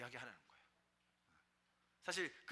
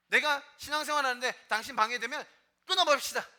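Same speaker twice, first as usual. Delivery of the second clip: loud, high-pitched preaching, pushing each line out; fiery preaching; 6 semitones higher, 10 dB louder than usual. Acted. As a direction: preach it hard to the congregation. Preaching at full force. (뜨겁게 설교하는 목소리)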